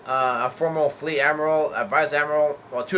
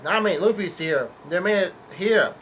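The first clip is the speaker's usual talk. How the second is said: higher and louder, an excited mock call; retold yell; 6 semitones higher, 4 dB louder than usual. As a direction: yell the news to Nami, half-acted. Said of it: "Chopper continues to yell".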